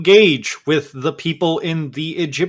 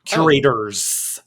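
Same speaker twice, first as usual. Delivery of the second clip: slow Southern "Curators"; Southern accent; slower than usual. Acted. GM repeating the word in Southern accent. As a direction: draw out "Curators" with a Southern lilt. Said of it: "doing the S list with a Southern accent".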